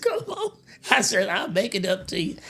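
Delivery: high, giggly coaxing; laughing plea. Retold or imitated. Promising friend to make it up, laughing. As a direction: coax him while laughing. Begging ride, still laughing.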